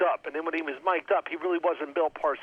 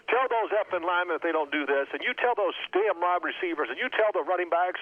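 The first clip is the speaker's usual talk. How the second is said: higher, mildly heated coach impression; retold coach rant; 4 semitones higher than usual. Coach berates quarterback on sideline, mildly heated imitation. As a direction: rattle off orders like an irate coach.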